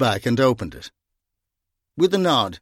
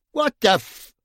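startled yelp; 11 semitones higher than usual. A narrator's reading. Brian clouted round the ear.

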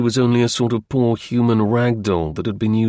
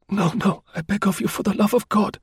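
higher woman's voice, pleading hard; piteous begging; 11 semitones higher than usual. A narrator's reading. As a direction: beg him desperately as the wounded woman. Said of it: "so piteously".

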